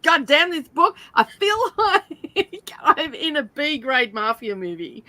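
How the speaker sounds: laughing rant against a bad book; mock outburst. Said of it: "I walked out and said".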